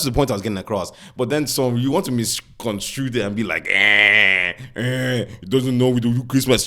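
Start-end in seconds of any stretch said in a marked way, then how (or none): 3.7-6.6 mocking Nigerian commenter in Yoruba accent. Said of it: "putting on a fake Yoruba accent".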